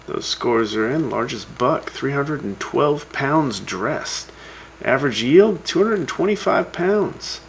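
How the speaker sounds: lively radio scoreboard read; radio announcer. Acted. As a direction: read out the scores like a show host. Reads hunting scores on radio.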